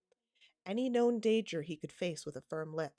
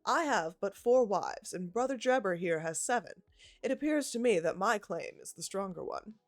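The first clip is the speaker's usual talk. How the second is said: higher, louder smug Mormon suitor; boastful elder pressing his claim; self-important suitor; 3 semitones higher, 4 dB louder than usual. Acted. Staggerson proposes for Lucy.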